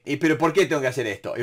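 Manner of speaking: fast, mock-whiny protest; whiny complaint to the boss. Employee whining at the boss, fast and mock-whiny. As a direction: whine the why at the boss, quickly. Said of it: "Si a tu jefe le decís".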